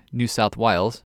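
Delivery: "New South Wales" with Wales sounding like Wiles; Australian vowel shift. Shown as a demonstration. Podcast host showing transformed Australian vowels, Wales as Wiles. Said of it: "and I's".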